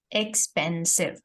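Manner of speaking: "expensive" split into separate syllables; teacher counting out the syllables of "expensive". Shown as a demonstration. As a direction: sound out "expensive" in three beats, ex-pen-sive. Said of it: "the word breaks down as you say it".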